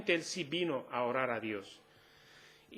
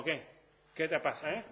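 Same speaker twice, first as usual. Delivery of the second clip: mock swagger. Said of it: "Siempre es como".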